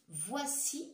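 long rising voici with the final i held; drawn-out dictation. Shown as a demonstration. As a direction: stretch the word voici for the pupils.

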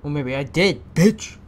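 mock defiant snarl. Mocking the prisoner's reply.

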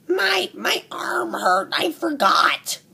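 high, slow whiny mock sob; mock whining excuse. Mocking a wrestler who blames his arm, whiny high sob. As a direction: play a crybaby making an excuse.

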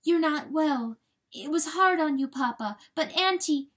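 put-on high, urgent young fawn voice; anxious fawn. A narrator's reading. Fawn coming forward to ailing Papa, high anxious voice. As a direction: press him anxiously in a high voice. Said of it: "she came forward in low voice".

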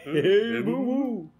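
playful falsetto greeting; silly high voice. Pretend. Teasing spooky voice exchange.

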